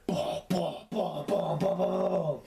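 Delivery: booming "bah" thuds; imitated stomping noise. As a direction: mimic heavy footsteps with your mouth. Imitating mom stomping down the stairs.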